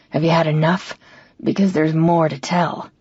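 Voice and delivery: a hint of a drunk man needling her; taunting drunk brother. Drunk brother taunting her at the table, lightly voiced low.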